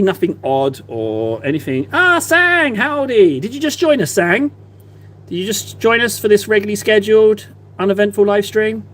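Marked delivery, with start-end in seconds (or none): 1.9-8.8 high, bright mock-innocent greeting, pitch up; sing-song host hiding something; fake chipper welcome. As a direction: play it overly cheerful and innocent. Overly chipper greeting, feigning normal.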